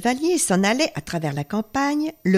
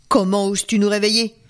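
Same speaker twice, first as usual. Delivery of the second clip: gronder. Acted. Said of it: "gronda un des chevaliers".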